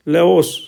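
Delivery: "लाओस" said alone with a rounded ओ; ओ sound demo. Shown as a demonstration. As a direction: teach "लाओस", the ओ clear. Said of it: "यहाँ पर ओ आ गया". ("लाओस" में गोल ओ)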